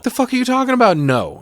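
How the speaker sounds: high, loud mock disbelief; hammed-up shout of disbelief; mock outburst. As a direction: pitch it way up in fake outrage. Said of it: "imitating Lee".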